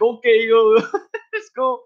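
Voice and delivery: hyped quote. Retold or imitated. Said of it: "Galant's like".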